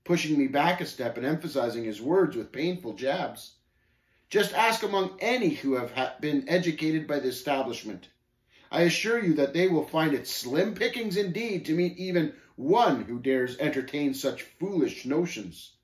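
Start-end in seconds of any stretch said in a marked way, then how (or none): 4.3-15.7 higher, emphatic scoffer; lightly voiced scornful Shame, insistent. Shame jabbing the pilgrim as he argues, insistent. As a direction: press the point with mild scorn.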